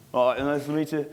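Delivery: lightly played Aussie greeting; a touch of Australian bloke; Australian accent. Bar local meets the teller's friend, light Australian accent. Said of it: "ridiculous Australian accent".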